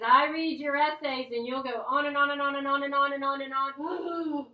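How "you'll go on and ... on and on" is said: droning on. Shown as a demonstration. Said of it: "mocking run-on essays".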